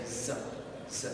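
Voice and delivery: Z said as a vibrating "zzuh"; voiced Z sound. Shown as a demonstration. Teacher having learners feel vibration, Z as "zzuh". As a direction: buzz each Z in the throat, "zzuh". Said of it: "you feel vibration".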